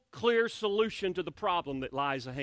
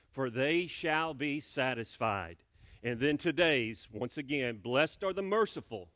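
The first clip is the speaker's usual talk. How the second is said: scripture recitation. Acted. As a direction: recite each verse deliberately to the church. Congregation reciting Beatitudes.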